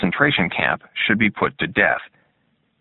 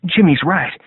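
Hugh's voice; 9 semitones higher, 3 dB louder than usual. A narrator's reading. Hugh voiced.

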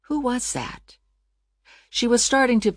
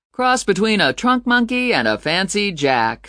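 infomercial voice; 5 semitones higher than usual. Acted. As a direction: pitch it like a late-night product ad. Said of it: "said his infomercial voice".

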